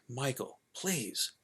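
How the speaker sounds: soft, understated plea; begging. Acted. Father begging his son to let it go, softly. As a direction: beg gently, dropping the volume. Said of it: "And he begged".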